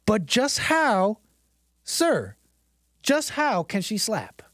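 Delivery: slow, pleading disbelief; mock exasperated plea. Host hamming up the clip's question to viewers, slow and pleading. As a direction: ask it like a begging rhetorical plea. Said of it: "one phrase he could repeat".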